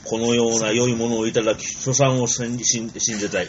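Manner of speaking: lightly voiced old samurai lord; a hint of Arakan's stately lord; Arakan impression. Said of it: "ちょっと荒勘になってるんですね". (嵐寛寿郎の物真似)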